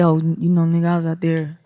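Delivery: lightly put-on boy's voice, a touch low. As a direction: slip into a hint of a young man. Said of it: "I don't know why I did a boy's voice".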